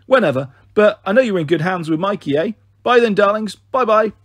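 bright, cheery mother leaving a message; chatty mum on a phone message. Acted. Mother on holiday leaving a message for her kids, breezy and cheery. Mum's voice on the answerphone.

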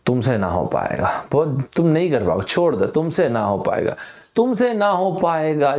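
a hint of a father brushing his son off; lightly voiced contemptuous dad; dismissive father. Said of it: "Randhir Singh अपने लड़के को क्या बोलते हैं".

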